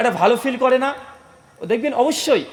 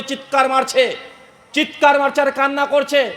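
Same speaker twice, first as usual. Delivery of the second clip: raised, ringing sermon delivery; impassioned preaching; 4 semitones higher than usual. A narrator's reading. Preacher telling of Hanzala crying in the street, impassioned. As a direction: preach the story with rising urgency.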